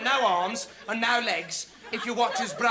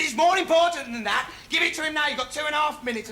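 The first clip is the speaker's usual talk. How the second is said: insistent order; 5 semitones higher, 4 dB louder than usual. Retold or imitated. Stranger insisting in retold quote.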